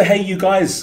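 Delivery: "Hey, you guys" bellowed high and loud like Sloth; loud, high Sloth shout of "Hey, you guys"; Sloth from The Goonies. Retold or imitated. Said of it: "guy in the basement".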